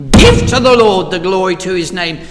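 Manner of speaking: forceful, loud opening on GIVE. Acted. Preacher reads the psalm's command to us, with force. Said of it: "it comes to us with force".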